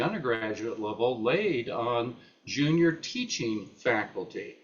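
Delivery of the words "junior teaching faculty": TEACHING set apart with emphasis; stress on TEACHING. Real, not acted. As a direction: underline the word TEACHING as you say it. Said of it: "I underline the word teaching".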